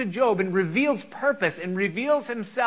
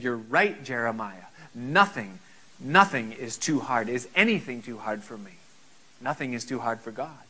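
voice of God; 8 semitones lower than usual. Acted. Preacher voicing God's reply.

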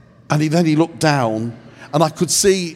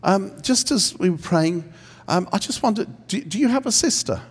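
gentle humble question; 3 semitones higher than usual. Shown as a demonstration. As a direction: ask gently, unsure of yourself. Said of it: "Do it like this".

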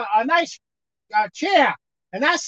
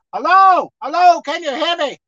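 calling out; 3 dB louder than usual. Retold or imitated. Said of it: "God is telling you".

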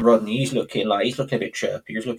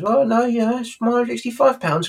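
put-on Del Boy voice; 11 semitones higher than usual.

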